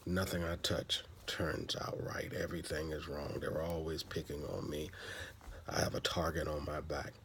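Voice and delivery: soft, hushed, sorry-for-myself complaint; a quiet woe-is-me moan; mock self-pity. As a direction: mutter it like everything's against you. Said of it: "we feel that".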